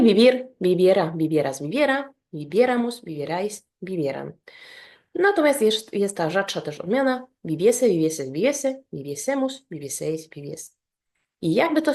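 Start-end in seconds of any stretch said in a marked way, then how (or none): 2.3-3.0 vivieramos with a raised, stressed second syllable, VIE; stressed stem vowel. Shown as a demonstration. Teacher demonstrating the accent rule on vivir, vivieramos stressed on VIE. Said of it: "żeby akcentować tą". 8.9-9.7 viviesemus with a higher, stressed second syllable, VIE; stressed stem vowel. Shown as a demonstration. Teacher drilling the rarer vivir form, viviesemus stressed on VIE. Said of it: "żeby akcentować tą".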